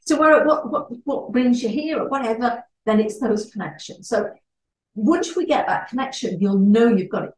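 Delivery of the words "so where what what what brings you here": high, delighted "Oh, right, that's fabulous"; gushing excited greeting. Shown as a demonstration. Networking trainer showing how to gush over Paris, excited. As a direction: gush like you've just found a shared love. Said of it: "I must go".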